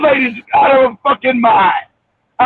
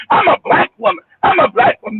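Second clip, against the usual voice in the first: higher-pitched mock insistence; mimicking her claim; 5 semitones higher than usual. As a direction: quote her mockingly, pitched up. Mocking the woman's claim in retelling.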